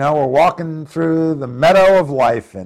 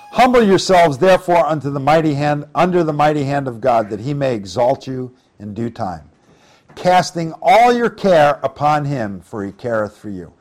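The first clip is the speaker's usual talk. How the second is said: raised, solemn reading of the verse; louder solemn scripture voice; 3 dB louder than usual. Acted. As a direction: read it out like holy writ. Reads scripture aloud in sermon.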